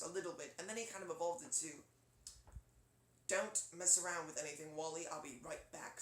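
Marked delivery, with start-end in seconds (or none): 3.3-6.0 lightly done British accent; a hint of British robot character. Shown as a demonstration. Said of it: "sort of like that pompous British voice".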